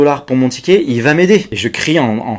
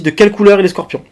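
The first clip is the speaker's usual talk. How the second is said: higher, louder mock operator voice; imitating the operator, higher; operator's question; 8 semitones higher, 6 dB louder, faster than usual. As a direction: ask it matter-of-factly like a call handler. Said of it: "Elle me dit".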